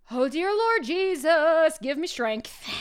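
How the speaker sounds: mock exasperation, a pleading sigh to heaven; begging the Lord for patience, half joking; exasperated plea. Teacher to a student about confused remote kids, mock exasperated plea.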